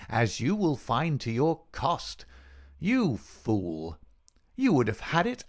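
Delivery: angry, emphatic villain voice; vengeful villain. Acted. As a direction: berate your dying victim.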